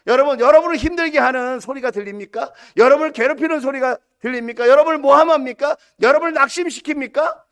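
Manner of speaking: loud, high, pressing questions; impassioned preaching. Real, not acted. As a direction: fire off rousing questions to the congregation. Rhetorical questions to congregation, raised.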